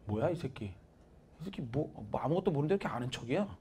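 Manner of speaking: quiet, dragged-out sneer, then quickening; scornful muttering. Retold or imitated. Girl sneering inwardly at a guy from an unknown college.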